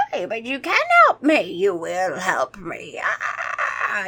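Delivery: slow menacing vampire; lightly voiced vampire threat; vampire insists the kids help him. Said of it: "You know how vampires sound?".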